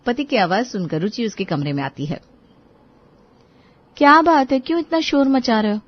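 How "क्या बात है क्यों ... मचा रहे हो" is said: put-on young wife's voice, a bit raised; puzzled wife. Wife walks in asking her husband why he shouts. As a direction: ask what the fuss is.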